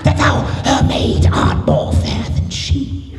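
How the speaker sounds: grand theatrical Shakespeare delivery; Shakespearean recital. Pretend. Performer reciting Shakespeare to the crowd, theatrically. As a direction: declaim it like a stage actor. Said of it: "Would you do the entire works of Shakespeare".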